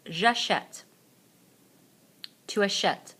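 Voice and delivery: each form said clearly, with a pause after it for repeating; teacher drilling J'achète for the class; model pronunciation. Shown as a demonstration. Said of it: "répétez après moi".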